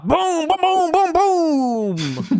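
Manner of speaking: high, loud booming sound effects; rapid-fire explosions voiced with glee; mock cannon blasts. Joking with a friend about Usopp blowing up the ship, high mock explosions.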